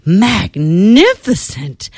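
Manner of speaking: slow, drawn-out magnificent; lightly voiced admiring princess. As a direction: savour each syllable. Princess praises dragon.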